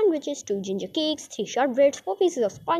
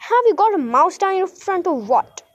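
high, loud, horrified question; 7 semitones higher, 5 dB louder than usual. A narrator's reading. Aunt questioning Medal's wriggling, horrified. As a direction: demand an answer, appalled and raised in pitch. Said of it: "said his Aunt Jemina in horror".

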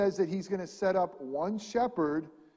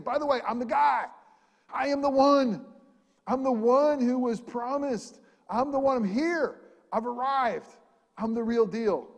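a higher, bolder voice announcing he has come; Jesus declaring himself; 5 semitones higher, 4 dB louder than usual. Acted. Preacher voicing Jesus to waiting Pharisees, bold and raised. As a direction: proclaim it like the awaited one arriving.

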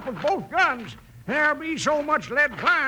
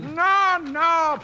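emphatic denial; 5 semitones higher, 4 dB louder than usual. Acted. Grandpa insists poodles are spanking boards.

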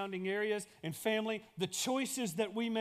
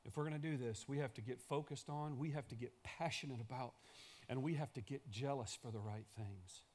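a soft echo of the big call; quiet repeat; 5 semitones lower, 9 dB quieter than usual. Shown as a demonstration. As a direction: lower and much softer, drawn inward. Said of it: "same lines said loud before".

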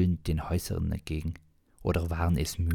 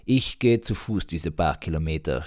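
mild mock shout; 3 dB louder than usual. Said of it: "schrie er noch zurück".

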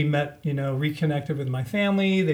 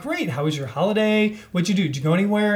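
higher-pitched chatty string of questions; eager small talk; 5 semitones higher, faster than usual. Retold or imitated. Teller replays quizzing the caller about the holiday, chatty and oblivious. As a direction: pile on friendly questions. Rattling friendly questions at supposed friend.

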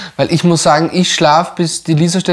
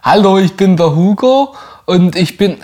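sächsischer Akzent; 4 semitones higher, 3 dB louder than usual. Pretend. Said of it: "wie er Sachse".

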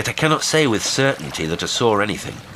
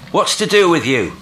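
loud, high exasperated outburst; bursting out; 11 semitones higher, 7 dB louder than usual. A narrator's reading. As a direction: burst out at the stranger. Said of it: "I burst out".

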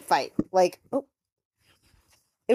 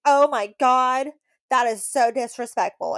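mock offended; 4 semitones higher, 3 dB louder than usual. Mocking Vanessa acting offended.

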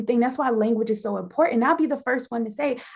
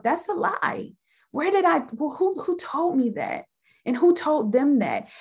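talking back to myself; 5 semitones higher than usual. Retold or imitated. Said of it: "talk back to myself and tell myself".

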